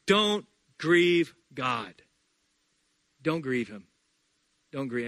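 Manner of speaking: very slow, each word weighed; a pleading slow refrain; slow emphatic plea. Acted. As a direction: drop it slowly into the room. Preacher slowing for key point.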